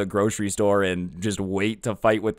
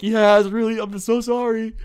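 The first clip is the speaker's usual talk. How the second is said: squeaky high, giggling "I'm so sorry"; laughing apology; 11 semitones higher, 3 dB louder than usual. Retold or imitated. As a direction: try to apologise but the laugh wins. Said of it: "clearly I'm not sorry 'cause I'm laughing".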